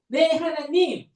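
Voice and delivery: a lightly voiced king humbly obeying; obedient David. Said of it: "라고 순종한 거예요".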